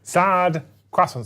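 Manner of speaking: slow, stretched-out "sad croissants"; drawn-out deadpan. Pretend. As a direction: linger on each word. Savouring the misnamed unit.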